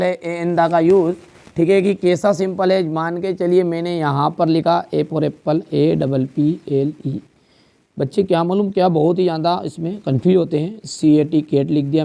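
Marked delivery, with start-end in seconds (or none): 4.9-7.2 slow spelling. Shown as a demonstration. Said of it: "spelling out a word".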